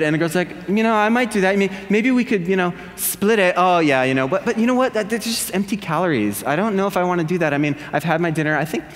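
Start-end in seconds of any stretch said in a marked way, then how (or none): 0.7-3.5 Valley girl impression. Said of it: "talking like a Valley girl". 3.6-8.8 Valley girl impression. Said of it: "talking like a Valley girl".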